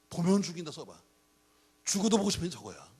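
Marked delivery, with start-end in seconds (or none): 0.1-0.7 high, forceful mock threat; loud warning. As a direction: blast out the warning. 같은 경고문, 크게 강조. (높고 크게 외치는 경고)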